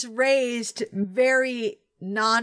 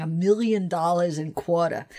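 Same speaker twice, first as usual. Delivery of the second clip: "a million dollars and quarter" with palatal L; New York Jewish accent, palatal L; 7 semitones lower than usual. Shown as a demonstration. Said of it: "is saying".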